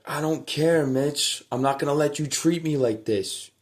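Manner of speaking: a hint of a fuming brother; mock angry brother. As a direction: throw his anger back at me.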